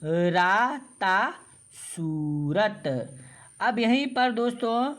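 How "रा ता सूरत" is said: सूरत read slowly with a long ऊ; syllable by syllable, stretching सू; long oo in soorat. Shown as a demonstration. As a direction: sound out रा, ता, then a slow सूरत. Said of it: "सा में बड़ा ऊ की मात्रा है तो सू".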